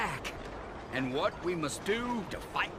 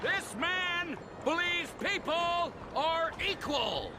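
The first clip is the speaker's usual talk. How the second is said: mocking disbelief; 11 semitones higher, slower than usual. Racist mocks stranger's belief.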